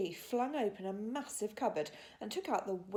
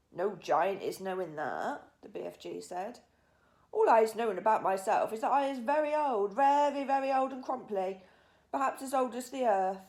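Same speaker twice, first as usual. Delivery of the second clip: put-on a very old giant puzzling over himself; 3 semitones higher, 7 dB louder than usual. A narrator's reading. BFG musing on age.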